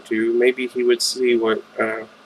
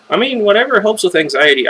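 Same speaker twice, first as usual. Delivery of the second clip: joking aside; 8 semitones higher, 4 dB louder than usual. Real, not acted.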